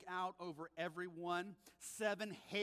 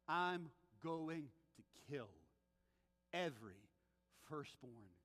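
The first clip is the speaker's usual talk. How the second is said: ominous God; 7 semitones lower, 5 dB quieter than usual. Retold or imitated. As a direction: sink to a dark, solemn warning. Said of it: "God said to Pharaoh".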